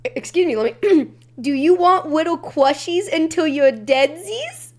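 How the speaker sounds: put-on slow cutesy baby-talk voice; boyfriend's baby talk in bed; quoting boyfriend's baby talk. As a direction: coo it like a sleepy partner. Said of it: "he turns over to me and says, and I quote".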